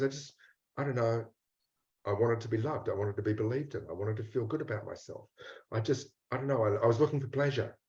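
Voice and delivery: soft, hesitant confession of a hurt inner part; quiet and unsure, owning up bit by bit; voicing the ashamed part. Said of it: "the part that goes".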